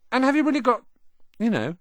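high, hushed and hesitant; awed boy whisper-question. A narrator's reading. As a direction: ask in hushed awe. Ron asks about the scar.

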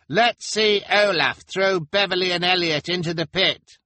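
very high, loud yell; goading shout at the top of the voice; rowdy heckler. Acted. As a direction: yell it out from the crowd. Heckler urging on a crowd.

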